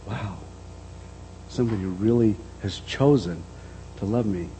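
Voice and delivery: softly marvelling, dropped in level; quiet awe. Retold or imitated. Someone realizing they are chosen and loved, hushed awe. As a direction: let the realization land softly.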